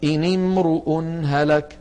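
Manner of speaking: slow recited "امرؤ" with "u" after the r; ra follows next vowel. Shown as a demonstration. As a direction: draw out "امرؤ" as "imru-un". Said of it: "تتبع الراء حركة ما بعدها". (تلاوة «امرؤ» ببطء بضم الراء)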